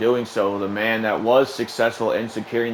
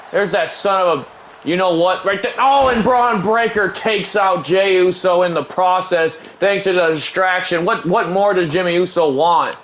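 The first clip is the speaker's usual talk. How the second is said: indignant call; 5 semitones higher than usual. Acted. Indignant at a distraction.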